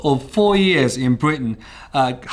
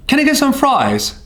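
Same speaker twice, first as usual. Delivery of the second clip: ordering at the pub; 9 semitones higher than usual. Retold or imitated. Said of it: "I went to a counter and I said".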